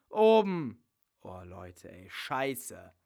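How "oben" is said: urgent. Acted. Answering fast in the panic.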